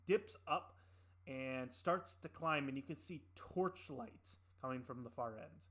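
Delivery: measured, deliberate scene setting; game master narration. Acted. Game master describing the sewers to the players, measured narration. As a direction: set the scene slowly, leaning on key details.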